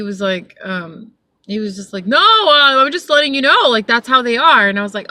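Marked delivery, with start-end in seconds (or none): 2.1-4.7 defensive protest. Retold or imitated. Retold passenger defending himself.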